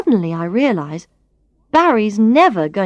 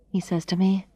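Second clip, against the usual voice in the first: plain reading voice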